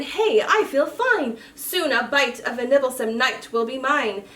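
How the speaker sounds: lightly voiced young dragon. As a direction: perk up after a good sleep. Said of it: "Dram woke and said".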